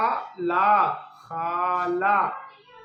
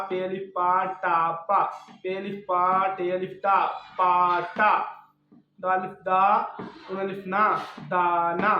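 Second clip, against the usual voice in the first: louder, deliberate syllable-by-syllable reading; spelling drill; 4 dB louder than usual. Shown as a demonstration. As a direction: call out each letter clearly for a child to repeat. Teacher spells syllables aloud.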